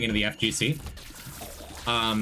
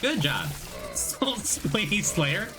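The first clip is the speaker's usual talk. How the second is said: excited cheer; 4 semitones higher, slower than usual. Real, not acted. Congratulating friend on finishing college.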